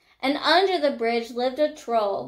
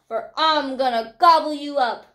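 menacing troll; 2 semitones higher, 4 dB louder than usual. A narrator's reading. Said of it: "said the troll".

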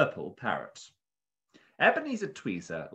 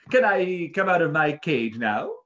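high, loud eager parrot; excited parrot asking; 8 semitones higher, 7 dB louder than usual. Acted. Parrot voiced in story.

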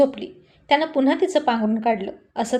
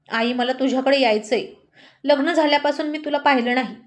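pretend phone call; 3 semitones higher than usual. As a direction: act a call that isn't real. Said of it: "मुद्दाम म्हणाली".

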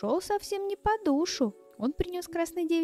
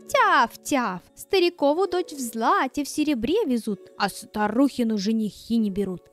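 little dog voice; 4 dB louder than usual. Acted. Dog barks prophecy again.

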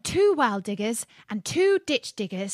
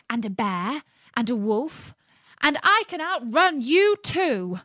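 louder, rising brag; loud call; 5 semitones higher, 4 dB louder than usual. Acted. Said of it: "called out in a very loud voice".

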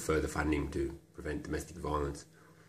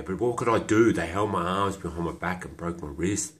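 agitated protest; 4 dB louder than usual. Acted. Defending himself over what happened, agitated protest. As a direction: burst out louder in self-defence.

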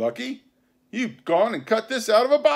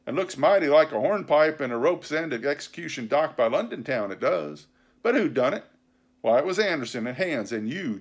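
loud, raised pirate tirade; vehement; 5 semitones higher, 6 dB louder than usual. A narrator's reading. Silver answering the mutineers' charges, vehement. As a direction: pound out the argument indignantly. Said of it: "talking with a vehemence that shook the house".

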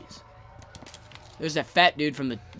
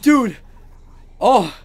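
high shrieking scream; terrified scream; 13 semitones higher, 16 dB louder, slower than usual. Real, not acted. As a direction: scream at the jump scare. Jump scare.

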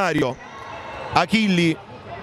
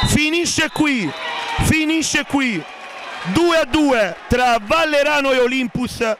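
excited commentary; 2 semitones higher than usual. Real, not acted. End of match, goal call.

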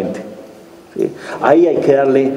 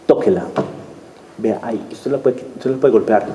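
calm explaining; 3 semitones lower, 5 dB quieter than usual. Retold or imitated. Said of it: "explicar otra manera de hacerlo".

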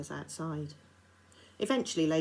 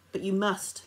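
insisting; 3 semitones higher, 7 dB louder than usual. A narrator's reading. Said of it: "Lady Barrington insisted".

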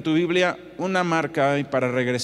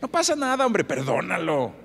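flippant reassurance. Retold or imitated. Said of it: "así como con mucha ligereza".

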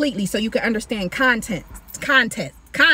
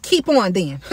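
dismissive tone; 4 semitones lower than usual. Shown as a demonstration. God daring the sorcerers, in a dismissive tone. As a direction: keep on then, brushing them off. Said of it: "Like in that tone".

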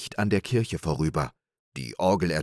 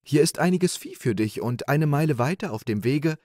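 much higher, sweet maiden's voice; sea maiden; 8 semitones higher than usual. Acted. Maiden under the water welcoming little Klaus, sweetly. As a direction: greet him like a gracious sea maiden. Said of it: "die schönste Jungfrau ... und sagte".

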